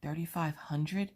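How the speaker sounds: husband's stunned echo, drawn out and rising; excited disbelief. Retold or imitated. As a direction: stretch it out as if you can't believe the price. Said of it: "my husband so excited".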